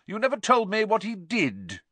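high prying aunt; pry like a nosy tipsy aunt; Aunt Marge voice. A narrator's reading. Aunt prying at Vernon, high.

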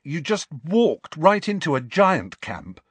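slow, high amazed question; stunned they dared walk in; awestruck. Acted. Ron asks Hagrid, slowly and awestruck. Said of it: "looking awestruck".

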